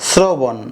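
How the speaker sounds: "শ্রবণ" as srobon, beginning on s; s pronunciation. Shown as a demonstration. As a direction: start "শ্রবণ" with sr, not shr. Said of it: "ছয়ের মতো হয়েছে". (দন্ত্য স-এর মতো "শ্রবণ")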